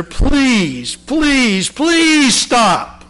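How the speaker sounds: choking on fumes, begging the master; crying out. Acted. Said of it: "I cried out to the master".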